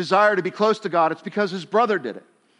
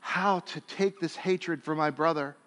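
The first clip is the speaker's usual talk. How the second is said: softer, pleading prayer to God; humble plea; 2 semitones lower, 7 dB quieter than usual. Acted. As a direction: Cain quietly asking God for help, humbled. Cain imagined asking God's help.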